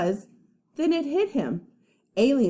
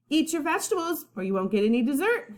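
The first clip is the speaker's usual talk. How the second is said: higher, quick motherly reminder; mom reminding; 6 semitones higher, much faster than usual. Acted. Mom reminding her son at dinner, lightly voiced. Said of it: "his mom reminded him".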